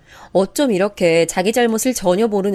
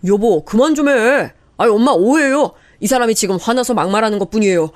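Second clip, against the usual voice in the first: brother-in-law calming the fight; husband pleading; 2 semitones higher, 4 dB louder than usual. Acted. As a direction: stop the wife and apologize.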